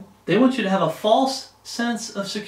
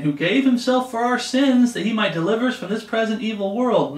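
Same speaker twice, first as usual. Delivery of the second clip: mildly stern quoted scripture, pitched up; 4 semitones higher than usual. Retold or imitated. Preacher showing how Paul said the verse, mildly stern. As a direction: imitate a stern apostle reciting the verse. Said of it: "he said this really sternly".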